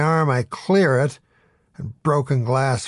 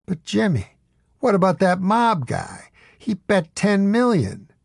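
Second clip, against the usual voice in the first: higher, urgent protest; agitated disbelief; 7 semitones higher than usual. A narrator's reading. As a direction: press him anxiously. Narrator pleading to Jimmy.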